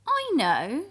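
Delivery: eager grandfather voice; Grandpa. Acted. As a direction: announce it like a proud grandpa. Grandpa has an idea.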